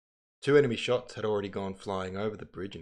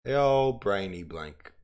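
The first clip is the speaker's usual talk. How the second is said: put-on louder, slower playful repeat of The old brainy blank; 7 dB louder, slower than usual. Shown as a demonstration. Reader repeating her joke louder for listeners, slow and playful. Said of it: "my brain's gone blank".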